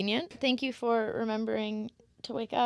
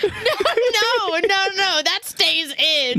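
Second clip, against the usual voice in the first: emphatic; 8 semitones higher, 7 dB louder, slower than usual. Real, not acted. Insists the clip stays.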